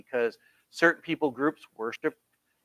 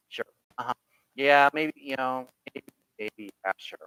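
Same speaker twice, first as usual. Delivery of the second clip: mock skepticism; 2 semitones lower than usual. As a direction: humor someone you don't believe at all. Mock skeptical listener reaction.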